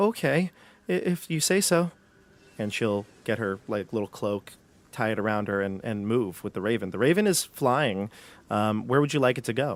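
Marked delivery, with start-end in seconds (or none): 0.0-1.9 frightened, trembling, high voice, very slow. A storyteller voices a character answering the player: scared, shaky voice. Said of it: "kind of like a shaky voice".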